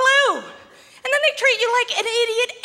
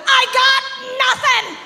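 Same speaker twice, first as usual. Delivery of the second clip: louder cry; mock exasperated traveller; 5 semitones higher, 4 dB louder than usual. Comic plays naked traveller at security, louder protest. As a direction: protest you have nothing on you.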